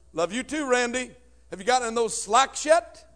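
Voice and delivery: a hint of a chirpy mom; mom on the phone. Mother answering Randy's daily call, light teasing. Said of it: "Call my mom every day".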